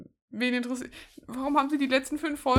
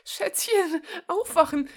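whispered call; 11 semitones higher, 4 dB louder, slower than usual. Acted. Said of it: "flüsterte die Stimme wieder".

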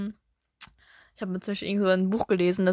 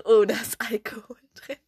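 mother whispering in shock; whispered aside. Retold or imitated. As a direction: hush it like a secret discovery. Mutter flüstert über Schokolade. (geflüstert, erschrocken)

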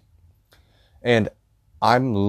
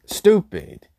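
a sharp whispered sneer; whispered scorn; 9 semitones higher than usual. Real, not acted. Ranting about the fountain drink guy, whispered scorn. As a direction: hiss it out in disgust.

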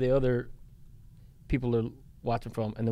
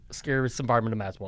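quoting Owen Wilson; 2 semitones lower, much faster than usual. Retold or imitated. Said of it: "Owen Wilson goes".

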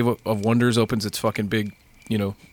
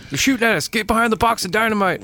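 action movie hero; 9 semitones higher than usual. Acted. Acting out a dynamite shootout.

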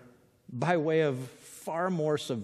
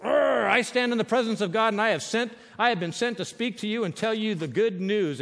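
Gabriel; 5 semitones higher than usual. Acted. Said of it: "The angel said".

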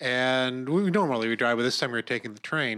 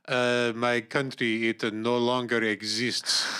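put-on Slavic accent; slower than usual. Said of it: "in this Slavic accent".

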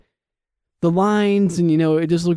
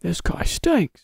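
Pat McAfee meme; 3 semitones higher, 4 dB quieter, much slower than usual. Retold or imitated. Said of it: "It's a Pat McAfee meme".

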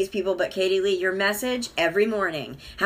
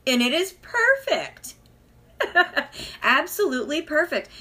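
delighted praise; 7 semitones higher than usual. Real, not acted.

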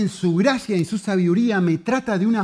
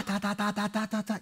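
high, monotone "ta-ta-ta" barrage; imitated yelling chatter; 4 semitones higher, 8 dB quieter than usual. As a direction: imitate a child's relentless noise. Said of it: "Él viene y me grita".

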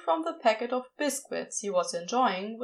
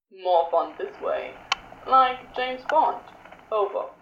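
teasing Crowley; 3 dB louder than usual. A narrator's reading. Crowley teasing over radio.

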